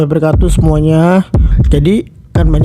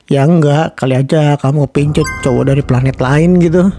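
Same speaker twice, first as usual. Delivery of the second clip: put-on higher sulky girlfriend voice; annoyed girlfriend; 9 semitones higher than usual. Girlfriend sulking at her fiancé's joke. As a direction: pout and scold him.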